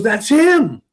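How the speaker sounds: mild imitation of a lady recognizing someone; lady's scratchy voice. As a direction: pin him down like the smoky lady. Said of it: "kind of a scratchy, smoky".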